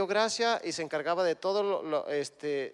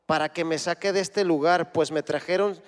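loud, slow, urgent plea, much louder; José begging the cupbearer to remember him; impassioned prisoner's appeal, read with full force; José pleading; 2 semitones higher, 7 dB louder than usual. Acted. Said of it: "Fíjense lo que dice José".

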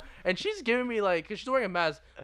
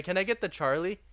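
a hint of a deeper, steadier voice; slightly deeper voice. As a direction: try to sound a bit more manly. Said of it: "a slightly deeper voice".

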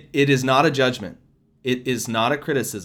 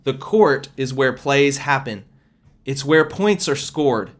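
firm, louder preaching voice, the Lord speaking through her; prophetic proclamation; 4 dB louder, slower than usual. Acted. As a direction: proclaim it slow and weighty like a prophecy. Repeats prophetic word.

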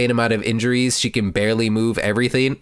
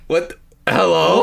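high, disbelieving what; hello, are you serious; incredulous; 7 semitones higher, 4 dB louder, slower than usual. Retold or imitated. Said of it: "I'm just like".

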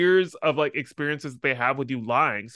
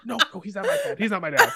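high, urgent mock panic; frantic correction; 8 semitones higher, faster than usual. Prankster tells boss he's not my dad, frantic. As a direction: plead upward through a laugh.

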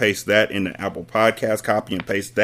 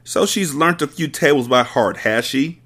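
a touch of a bark, higher; 6 semitones higher than usual. Acted. Headmistress dismissing Matilda's talent, mild bark. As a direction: sneer it short and hard. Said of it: "Miss Trunchbull barked".

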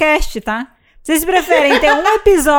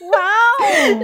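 ironic wow; 6 semitones higher than usual. Pretend. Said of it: "eu tô mudando a minha entonação".

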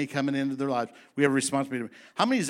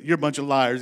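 blunt accusation; 6 dB louder than usual. Retold or imitated. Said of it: "he said it like this".

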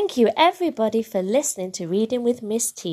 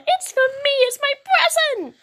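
put-on high, thrilled little-girl voice; squealing excitement; 4 dB louder than usual. A narrator's reading. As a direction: squeal with joy over a gift. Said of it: "squeals Sula".

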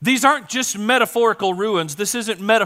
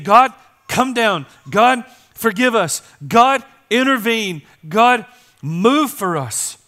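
pleading cry; 3 semitones higher, 5 dB louder, slower than usual. Acted. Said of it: "do you hear the pleading".

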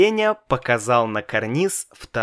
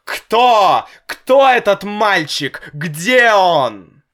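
loud, raised angry demands; father yelling for the boy's name; angry shouting; 9 semitones higher, 8 dB louder, slower than usual. A narrator's reading. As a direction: fire questions furiously. Father yells questions.

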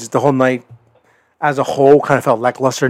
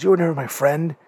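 higher, rising to a mock wail; hurt accusation; 4 semitones higher, faster than usual. MJF accusing his tag partner of betrayal, voice climbing higher. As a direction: play the betrayed friend, voice climbing. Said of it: "And M J F goes".

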